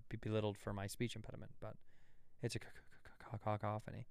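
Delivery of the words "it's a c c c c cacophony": fake stutter. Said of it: "if you have a stutter".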